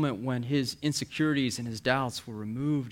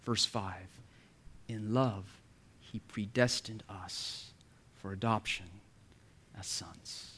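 slow, softer reading with weight on each phrase from "In love" to "as sons"; emphasis on every word; 3 semitones lower, 5 dB quieter, slower than usual. Shown as a demonstration. Preacher reads the adoption verse, slow emphasis on every word. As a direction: pause after "love", "us" and "adoption", letting each land quietly. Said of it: "an emphasis on every word".

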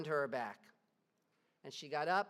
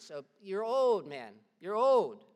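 loud scolding judge; 2 semitones higher, 9 dB louder, slower than usual. Acted. Governor scolding old Polycarp, loud and slow. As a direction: lean on him with a raised voice.

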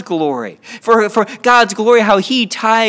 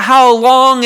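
mild raised-voice plea; crying out; 3 semitones higher, 5 dB louder than usual. Acted. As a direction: call out to God, a little louder. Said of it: "We cry out".

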